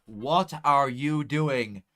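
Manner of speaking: slow, loud disbelief; exasperated shout. Real, not acted. Streamer yelling at Bradford's play, exasperated. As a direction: drag out the frustration.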